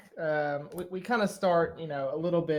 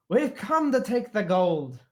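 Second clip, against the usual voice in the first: loud, higher-pitched bold dwarf; 6 semitones higher, 7 dB louder than usual. Acted. Dwarf challenging the dragon, loud dwarf voice. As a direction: announce it loudly, high-pitched, as a brash dwarf.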